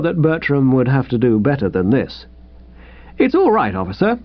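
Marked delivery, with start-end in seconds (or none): 3.2-4.2 nervous reassurance. Acted. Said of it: "I said".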